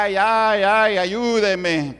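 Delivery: high, slow, drawn-out wail; terrified cry for help. Retold or imitated. Brujo crying out in terror as the devil drags him, high wailing. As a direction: wail for help as if being dragged away. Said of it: "comenzó a gritar terriblemente".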